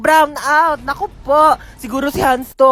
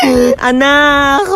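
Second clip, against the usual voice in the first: drawn-out wail; 3 semitones higher, 4 dB louder, much slower than usual. Acted. Mother wailing at the coffin.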